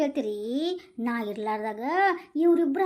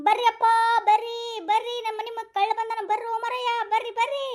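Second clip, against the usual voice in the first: calling for help; 4 semitones higher than usual. Acted. Calling neighbours to catch thief.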